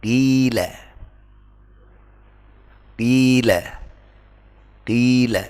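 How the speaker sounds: qila with thick q and clear i; correct qila. Shown as a demonstration. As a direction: model it deliberately. (bacaan benar qila)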